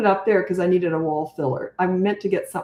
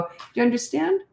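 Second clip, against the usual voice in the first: calm question; 6 semitones higher than usual. Shown as a demonstration. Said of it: "But watch your tone".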